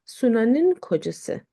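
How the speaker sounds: slow, careful model reading of "Suna'nın kocası", each syllable clear; slow model phrase. Shown as a demonstration. Teacher modelling the Turkish phrase for students, slow and careful. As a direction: spell out "Suna'nın kocası" slowly for the learners. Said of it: "we need this ne and then in".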